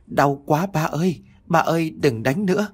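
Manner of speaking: put-on high little child's voice, begging; child crying in pain. Child begging father to stop beating, high and pained. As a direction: plead like a small kid under the cane.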